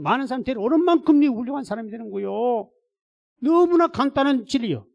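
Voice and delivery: high, loud pulpit delivery; full-force preaching. Acted. Pastor telling congregation his calling, full-force preaching. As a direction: drive it home to the congregation.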